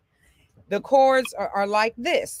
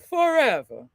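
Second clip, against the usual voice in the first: yawned speech. Shown as a demonstration. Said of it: "Just speak it".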